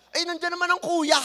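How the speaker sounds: high, loud put-on kid voice; a sulky high child's excuse; whiny child. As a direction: push the chore onto big brother, whining high. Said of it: "ang sasabihin ng bata".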